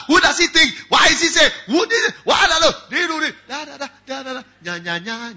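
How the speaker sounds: high, loud mock complaining of a religious man; mocking Pharisee. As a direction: whine it like a petty Pharisee, trailing into nya nya.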